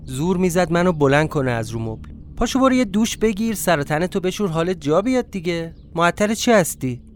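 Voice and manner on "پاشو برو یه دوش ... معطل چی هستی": lightly voiced woman, pitched higher; a higher voice nudging someone to get moving; urging woman. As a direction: coax with mild impatience. Woman urges him up.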